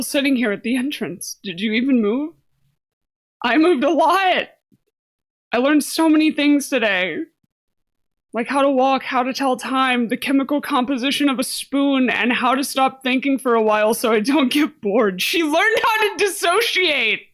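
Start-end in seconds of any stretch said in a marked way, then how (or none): 3.4-15.2 excited. Acted. Eager character answering. 15.2-17.3 laughing. Real, not acted. Streamer cracking up at character.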